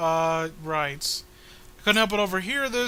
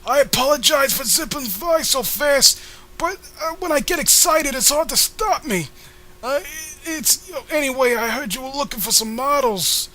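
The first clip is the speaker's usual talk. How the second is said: put-on squeaky girl voice; 5 semitones higher than usual. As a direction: play an over-eager chirpy young girl. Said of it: "You sound like you're s-, eighty and a man".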